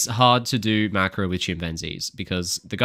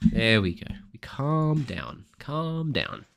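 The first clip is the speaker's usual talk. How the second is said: slow, softer soothing repeat; calming self down; 2 semitones higher, 6 dB quieter, much slower than usual. Real, not acted. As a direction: ease yourself down slowly and softly.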